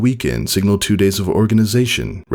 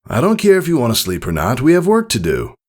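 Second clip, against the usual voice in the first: stern father; 7 semitones higher than usual. Acted. Father rousing daughter for chores.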